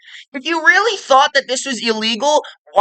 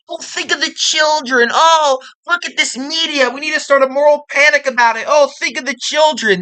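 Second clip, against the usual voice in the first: higher, whiny preachy mock voice; mocking virtue signaler; 5 semitones higher than usual. Mocking people who claim to protect children. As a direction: sneer at their fake concern. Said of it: "virtue signaling about".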